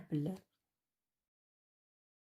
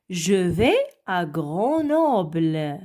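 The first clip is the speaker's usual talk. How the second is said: slow model reading; 2 semitones lower, slower than usual. Shown as a demonstration. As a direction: read out slowly and clearly for the class. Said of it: "Regardez maintenant la deuxième phrase".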